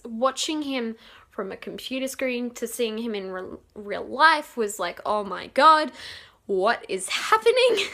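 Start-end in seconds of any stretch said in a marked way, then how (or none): 5.1-7.9 overwhelmed fangirl reaction, voice jumping up; starstruck disbelief. Retold or imitated. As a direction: squeal it in mock disbelief. Fan reliving seeing idol in person.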